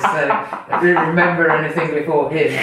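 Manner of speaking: talking through laughter; laughing. Real, not acted. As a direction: laugh while you say it. Laughing at own joke.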